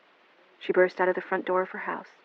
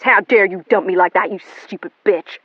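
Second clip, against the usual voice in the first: furious cry; 3 semitones higher, 8 dB louder than usual. A narrator's reading. Melanie shouting back at William. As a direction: hurl it at him. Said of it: "she cried".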